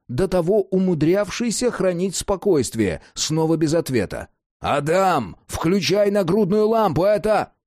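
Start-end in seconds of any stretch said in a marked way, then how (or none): 4.6-7.5 higher, pressing instruction; urgent order. A narrator's reading. Jack tells Adam to switch on lamp, urgent. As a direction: order it urgently, climbing in pitch.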